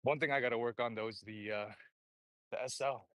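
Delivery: breathless, just back from the gym; out of breath, catching air between words. Real, not acted. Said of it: "Sorry, I'm out of breath".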